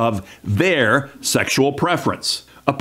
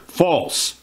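"false" set apart as the key word; a single, final "false"; stress on FALSE. Real, not acted. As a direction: land on "false" alone, with a falling tone. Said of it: "that's the key word".

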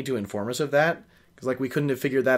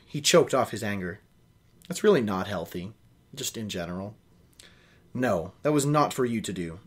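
reading a novel aloud, steady and even; story narration. A narrator's reading. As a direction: carry the listener through the scene. Reads novel aloud with character voices.

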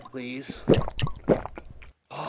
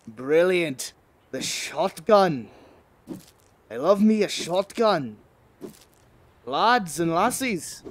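playful, lightly put-on Scottish brogue; half-hearted Scottish lilt; mock Scottish accent; slower than usual. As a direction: savour it slowly in a casual fake Scottish accent. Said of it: "I don't know why I'm speaking Irish".

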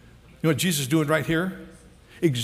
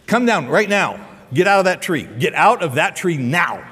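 firm, louder order in short bursts; blunt command; 4 dB louder than usual. Retold or imitated. Preacher acts out Jesus ordering a man from a tree, blunt command. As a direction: order him down, brooking no delay.

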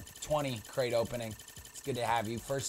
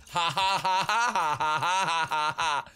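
loud, put-on ha ha laughter; fake laugh; 4 semitones higher, 5 dB louder than usual. Streamer faking a laugh at his own joke. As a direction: laugh on purpose, like a cartoon. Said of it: "Wouldn't that be funny?".

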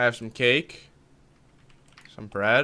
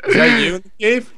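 excited shouting; 11 semitones higher, 3 dB louder than usual. Real, not acted. Panic in dark cave.

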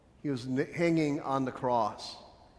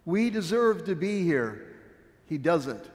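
raised, loud defending cry; cried out; 4 semitones higher, 4 dB louder than usual. Acted. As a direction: cry out to silence the other thief. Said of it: "he cried".

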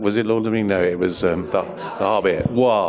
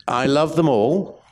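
whispering. Real, not acted. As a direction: breathe it like a secret. Gushing aside about all doctors.

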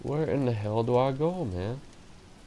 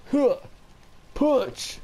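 sudden high yell; 3 dB louder than usual. Real, not acted. Gamer yelling as he throws a punch, high shout. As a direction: shout the word high and sharp.

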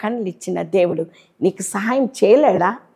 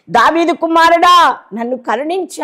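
blind man's cry; 5 semitones higher, 3 dB louder than usual. Retold or imitated. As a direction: cry out for mercy like the blind beggar. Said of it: "కేకలు వేసిన". (గుడ్డివాడి గట్టి కేక, నెమ్మదిగా)

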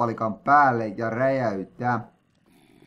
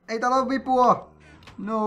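indignant exclamation; 10 semitones higher than usual. Real, not acted. Lever missing in game.

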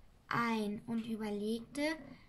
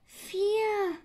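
higher, loud creature count; Sams counting; 9 semitones higher, 8 dB louder than usual. Acted. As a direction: call the number out brightly as the Sams. Sams zählt Wunschpunkte. (Sams zählt laut und hoch)

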